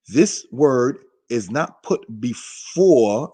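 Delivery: slow and deliberate, drawing out "before"; stress on "before". Real, not acted. Teacher giving brothers and sisters a grammar rule, stressing "before". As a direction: space the words out and lean on "before". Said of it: "we wanna emphasize before".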